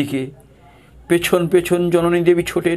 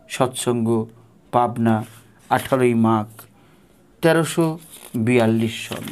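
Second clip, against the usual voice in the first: devotional recitation. Acted. Reading Thakur's call to the disciples aloud, devotional recitation. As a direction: read it like a sacred letter, full of longing.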